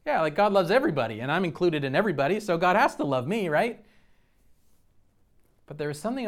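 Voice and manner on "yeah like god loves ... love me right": breezy dismissive self. Retold or imitated. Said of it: "I'd be like".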